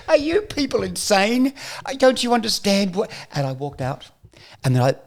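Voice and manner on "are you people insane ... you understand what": incredulous outburst. Retold or imitated. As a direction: throw it at them in disbelief. Storming at producers' meeting.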